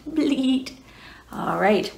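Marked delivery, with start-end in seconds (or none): 0.1-0.8 "Bleat" with a crisp T at the end; final T. Shown as a demonstration. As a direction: say "Bleat" ending on a clear T. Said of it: "bleat with a T at the end".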